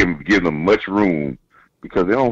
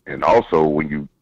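over the phone. Real, not acted. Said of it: "I'm talking to you on the phone".

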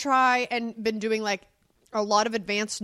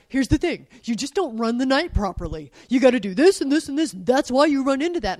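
louder, preachy correction; mock lecturing spouse; 3 semitones higher, 7 dB louder than usual. Retelling husband's correcting lecture, mock preachy. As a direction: lay out the fix, know-it-all. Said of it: "you're like".

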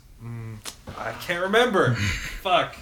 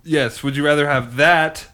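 laughing; 4 semitones higher, 7 dB louder, slower than usual. Real, not acted. Laughing after the king bit.

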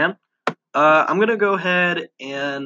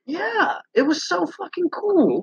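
excited; 11 semitones higher, slower than usual. Real, not acted. Excited recalling the T-shirt kiosk.

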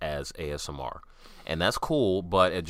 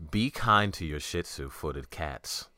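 sensual sexy voice. Acted. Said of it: "read them in a sensual, sexy voice".

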